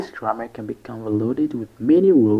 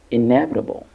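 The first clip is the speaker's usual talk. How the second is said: "inevitable" with main stress on "ne"; "inevitable", light first beat, strong second; stress on second syllable; much faster than usual. Shown as a demonstration. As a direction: lean on the "ne" in "inevitable". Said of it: "primary stress is on the second syllable".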